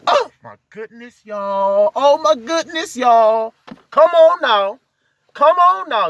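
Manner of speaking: high, loud joyful exclamations; excited. Real, not acted. Preacher carried away by his message, excitedly high and loud. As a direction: burst out in overjoyed praise.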